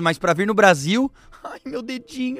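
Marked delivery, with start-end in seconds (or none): 1.4-2.4 lamento agudo, lento e manhoso; imitando um baterista. Retold or imitated. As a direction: choramingando exagerado de dor fingida. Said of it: "O baterista já tocou com o braço quebrado". (voz aguda e dengosa de dor fingida)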